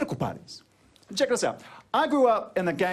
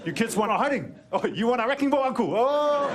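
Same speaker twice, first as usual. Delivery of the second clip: put-on teasing kid voice; 5 semitones higher than usual. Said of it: "were like".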